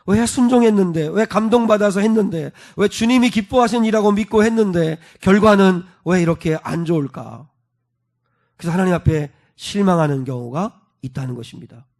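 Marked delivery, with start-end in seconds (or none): 0.1-7.5 plaintive questions, raised then sinking at the end; acted-out complaint to God; outpoured lament. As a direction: lament it in mild protest, falling away. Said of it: "그 탄식이 터져 나온다는".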